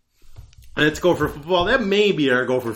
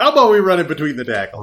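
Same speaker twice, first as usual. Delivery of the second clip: fast and laughing, a touch louder; laughing mock coach; 3 semitones higher, 5 dB louder, faster than usual. Host mocking the coaching staff, laughing fast. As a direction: toss off the coach's idea through laughter.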